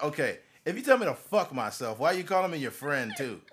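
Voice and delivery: loud retort. Retold or imitated. Retold comeback to owner.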